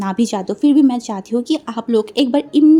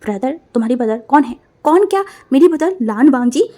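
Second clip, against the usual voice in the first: angry retort; 4 dB louder than usual. Acted. Quarrel continues.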